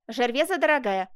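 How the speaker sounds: exclaiming. Acted. Lover bursts in on his seamstress, exclaiming. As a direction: call out to your sweetheart, mildly urgent. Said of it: "воскликнул Жак".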